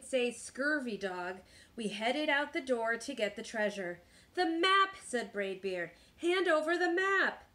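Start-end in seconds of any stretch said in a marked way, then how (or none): 4.3-5.0 high, loud pirate demand; urgent demand. A narrator's reading. Captain urgently demands the map. 6.2-7.4 high-pitched pirate order; demanding captain. A narrator's reading. Captain orders map handed over.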